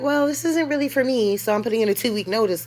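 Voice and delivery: high, prim, fast mock resignation; mock polite quitting. Woman mocking the idea of politely quitting the game. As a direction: play it as a sarcastic polite resignation.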